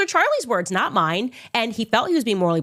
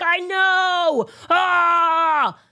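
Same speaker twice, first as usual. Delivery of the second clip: mocking Seth; 10 semitones higher, much slower than usual. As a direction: ham up Seth's fake outrage. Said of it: "And Seth was like".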